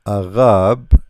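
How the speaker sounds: Arab with a loud, throaty French r; French pronunciation. Shown as a demonstration. Teacher shows the word that presents letter ra, French pronunciation. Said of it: "present perfectly in letter ra".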